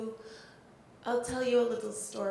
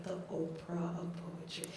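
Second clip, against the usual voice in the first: softer, lower aside; quoting family; 4 semitones lower, 8 dB quieter than usual. Retold or imitated. Explaining Rita Dove to the family, a softer lower quip. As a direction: drop it down like a punchline. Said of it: "she's like".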